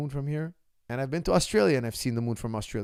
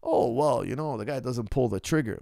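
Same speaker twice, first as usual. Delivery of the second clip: mock critic. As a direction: sneer like a know-it-all. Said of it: "You can't just be like".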